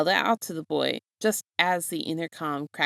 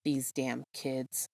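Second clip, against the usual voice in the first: weary grumble; 4 semitones lower, 9 dB quieter, much slower than usual. A narrator's reading. Tired teacher grumbles inwardly.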